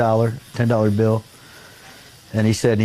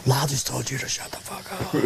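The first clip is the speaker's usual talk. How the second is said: quiet, amused retold jab; hushed aside; 3 semitones higher, 8 dB quieter than usual. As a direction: drop it right down, as if confiding. Acts out his aside to Gus.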